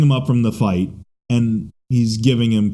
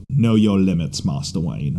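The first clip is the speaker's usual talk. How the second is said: a hint of Caine's worried Alfred; Michael Caine as Alfred; 5 semitones lower than usual. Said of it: "I like that delivery".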